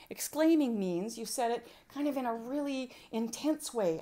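ordinary talk, nothing marked

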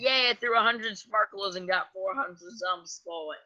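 talking with food in mouth; words round a mouthful; mouth full. Real, not acted. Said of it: "my mouth is clear enough".

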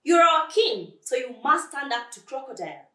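high, loud urging; urgent appeal. Acted. Animals urge their king.

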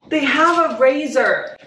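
high, slow, gushing delight; thrilled disbelief. Real, not acted. Vlogger marvelling at a free razor, thrilled. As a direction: stretch it out in amazed delight. Repeats delighted discovery after gasp.

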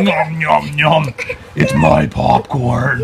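slow greedy dinosaur; munch like a hungry dinosaur; playful dinosaur. Pretend. Dad plays raptor eating popcorn.

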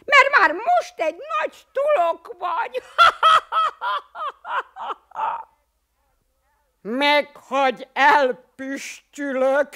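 laughing shout breaking into giggles; mock the poet through laughter; giggling. Bruckner Siegfried teases the poet, giggling. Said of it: "vihogott Bruckner Siegfried".

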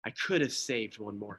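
soft, broken repetition; tearful lament. Acted. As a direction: let it fall away in grief. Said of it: "through tears in his eyes".

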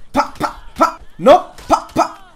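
short popped blows; playful hit noises. Pretend. Gamer voicing attacks on an opponent, playful hit noises. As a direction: punch out little percussive syllables.

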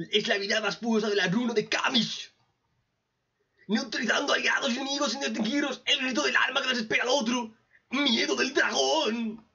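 hammed-up solemn skill announcement; dramatic put-on reading. Recapper reads out the dragon rune's power, theatrical put-on voice. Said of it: "Y según lo que dicen, el tío".

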